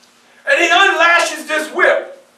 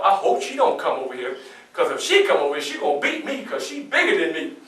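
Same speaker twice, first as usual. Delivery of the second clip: worried inner thought; 8 semitones lower, 7 dB quieter than usual. Retold or imitated.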